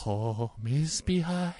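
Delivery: slow singing hobbit; Pippin impression. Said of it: "I sound just like him".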